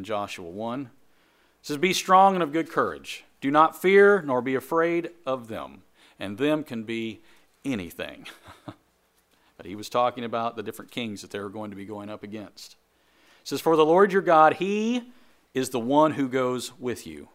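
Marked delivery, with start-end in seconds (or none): 1.8-5.8 ringing scripture declaration; proclaimed scripture. Acted. Preacher proclaiming scripture quote. 13.6-17.3 loud, high ringing declaration; rising preacher's proclamation; proclaimed scripture. Acted.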